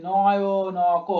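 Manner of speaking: "নয়নক" very slow, each syllable separate; single syllables. Shown as a demonstration. Teacher showing single beats, "নয়নক" slowly syllable by syllable. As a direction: chant "নয়নক" as no-yo-no-ko. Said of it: "প্রত্যেকটা single single উচ্চারণ করছি".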